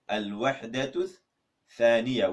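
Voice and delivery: Al-Wahdatul with a rise, pause, then Thaniya falling; split in two. Shown as a demonstration. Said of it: "how do you say unit two".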